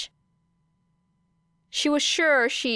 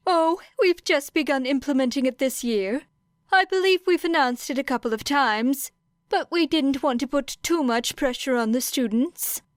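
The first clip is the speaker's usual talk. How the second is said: put-on a lightly higher, courteous old principal; polite, faintly sympathetic headmaster tone; voiced principal Nezu; 5 semitones higher than usual. Nezu explains the new award.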